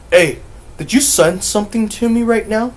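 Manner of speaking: high, loud, alarmed questioning; spooked nephew. Retold or imitated. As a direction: blurt it out as a rattled nephew. Voices nephew coming out spooked.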